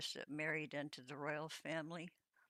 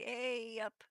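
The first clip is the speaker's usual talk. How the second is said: higher-pitched mock British greeting; bad British accent; 5 semitones higher than usual. Streamer practising a borrowed greeting on a chatter, mock British accent. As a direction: have another go at a British "hey up". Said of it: "I think I said it right".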